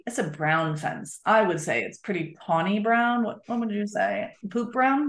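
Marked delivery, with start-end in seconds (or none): 3.2-5.1 put-on silly teasing question to a toddler; light, playful parent voice; playful to a child. Shown as a demonstration. Parent joking with child about the fence color, playful. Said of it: "So here's what's gonna happen".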